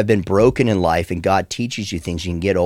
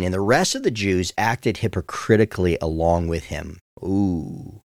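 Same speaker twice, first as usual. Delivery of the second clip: choked up; 2 semitones lower than usual. Real, not acted. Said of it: "let me just compose myself here".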